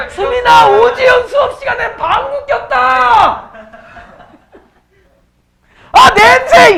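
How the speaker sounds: loud, high, slow tattling yell; shouting across the room. Real, not acted. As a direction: yell it out to the whole class. Calling out a classmate's fart.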